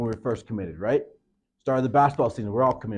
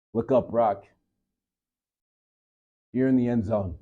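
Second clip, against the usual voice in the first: gentle coach. Retold or imitated. Coach kneeling beside his player, speaking gently.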